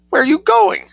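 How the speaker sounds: high, loud shriek after him; scream. A narrator's reading. Adela shrieks at the artist striding away, loud high scream. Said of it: "screamed Adela".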